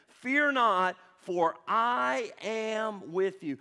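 FEAR NOT called out loud, the rest slow; loud repeated declaration. Shown as a demonstration. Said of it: "Let's say that one more again".

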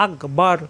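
আকবার with a thick, heavy র at the end; heavy final r. Shown as a demonstration. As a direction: round out the closing র of আকবার. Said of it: "র সাকিন র মোটা হয়ে যাবে". (আকবার-এর র মোটা করে)

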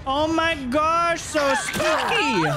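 high, slow hammed-up gasp; mock spooky. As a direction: tease them in a fake-scared voice. Mocking survivor with spooky tone.

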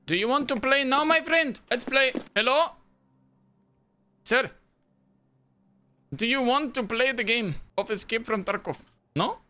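put-on sing-song eerie child voice; too calm creepy doll.

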